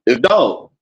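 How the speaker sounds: "Doug" for dog as said in Uptown west Baltimore. Shown as a demonstration. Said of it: "He's from Uptown, over west".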